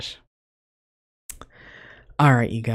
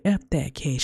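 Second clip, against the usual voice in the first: higher, whispery mock goading; egging on; 4 semitones higher than usual. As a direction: imitate goading in a strained whisper. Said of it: "egging him on".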